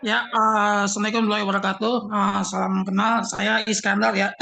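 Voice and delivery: slightly hoarse, scratchy throat. Real, not acted. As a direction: speak through a sore throat. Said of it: "suara agak serak". (suara serak)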